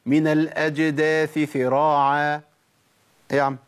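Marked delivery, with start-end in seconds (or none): 0.0-2.4 سراعا turned into ذراعا; نطق خاطئ; wrong reading. Shown as a demonstration. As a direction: show the mistake ذراعا instead of سراعا. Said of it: "ولا أقول".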